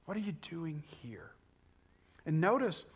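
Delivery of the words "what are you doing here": quiet question, weight on "here"; stress on HERE. Shown as a demonstration. Preacher showing where the question's emphasis lies, stress on HERE. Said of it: "this is where the emphasis for this question lies".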